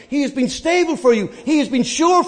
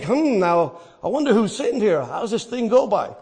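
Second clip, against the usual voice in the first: mock musing; 3 dB quieter than usual. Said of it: "being self-proclaimed theologians, think".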